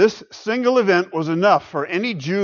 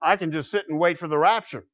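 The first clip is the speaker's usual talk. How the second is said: mock lazy excuse; 4 semitones higher, faster than usual. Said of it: "That's usually what it means".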